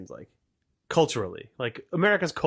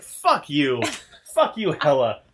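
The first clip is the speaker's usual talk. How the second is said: mock angry retort; 6 dB louder, slower than usual. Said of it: "it's like".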